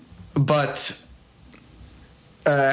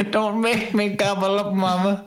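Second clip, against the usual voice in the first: put-on whiny kid voice; 6 semitones higher than usual. Whiny childish plea to mama.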